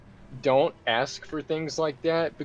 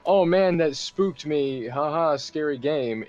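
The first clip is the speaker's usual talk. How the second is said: higher, louder fake amusement; mock amused player; 5 semitones higher, 3 dB louder than usual. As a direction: act out a lightly spooked gamer. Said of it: "it's not".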